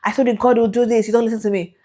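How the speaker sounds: husband scolding wife for doubting, mock cross. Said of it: "And he was so angry".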